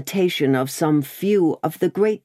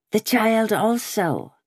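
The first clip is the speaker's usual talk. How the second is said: slow, higher, savouring each word; meditative enjoyment; 8 semitones higher than usual. Acted. Jacques Three musing on the child, slow and savouring. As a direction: linger on the words as if tasting them. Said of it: "with a meditative enjoyment of his words".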